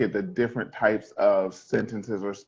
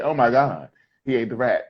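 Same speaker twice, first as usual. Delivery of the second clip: excited exclamation; 4 dB louder than usual. Shown as a demonstration. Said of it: "We're gonna say".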